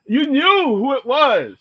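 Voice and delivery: drawn-out emphasis on knew; emphatic. Real, not acted. Making the point to friends, emphatic. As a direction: stretch it out with conviction. Insisting after singing.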